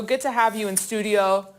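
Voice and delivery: anchor voice. Real, not acted. Anchor greets studio guest in an anchor voice. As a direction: keep up the anchor's welcome. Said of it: "your voice was an octave higher".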